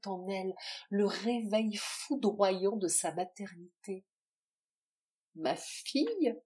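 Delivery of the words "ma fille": higher, slow stunned question; a touch of rasping wonder; mild rasping gasp. Acted. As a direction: breathe it in dawning disbelief. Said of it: "râla-t-elle".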